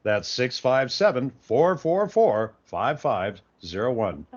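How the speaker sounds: co-host hamming up an announcer read for the caller; radio announcer read. Acted. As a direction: pitch it like a station promo. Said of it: "I'm Irving the Indian Boy".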